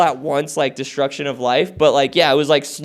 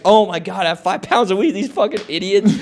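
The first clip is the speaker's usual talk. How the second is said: higher-pitched retold amazement; gleeful disbelief; 5 semitones higher than usual. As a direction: marvel at the cops' blunder. Gleeful disbelief at finding stash, retold.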